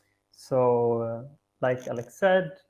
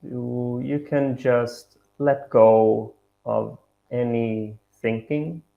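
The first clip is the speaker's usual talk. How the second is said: measured meditation guidance with long pauses; guided meditation. Acted. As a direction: guide them gently, pausing between each instruction.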